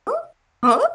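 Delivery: short puzzled grunt rising at the end; puzzled little questioning huh; confused. Acted. Player voices Pascal's confused reaction, puzzled. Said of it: "not necessarily a confused look, but a confused look".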